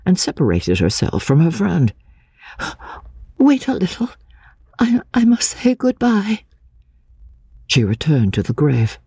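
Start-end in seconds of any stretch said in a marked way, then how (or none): 3.4-6.4 high, urgent whisper; hushed plea to wait. A narrator's reading. Anne quietly stops her friend.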